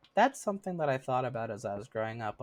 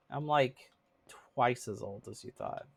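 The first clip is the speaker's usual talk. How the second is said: laughing. Real, not acted. Laughing while revealing her age.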